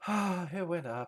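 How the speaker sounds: words breathed out on a sigh. Retelling how Jen reacted when the trade went up: imitating Jen sighing. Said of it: "I could hear you sighing under your breath".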